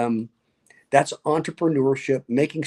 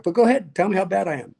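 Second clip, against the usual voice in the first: high, louder teasing dare; inviting challenge; 6 semitones higher, 3 dB louder, faster than usual. Retold or imitated. Candidate to heckler at the door, teasing dare. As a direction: egg the heckler on, playfully.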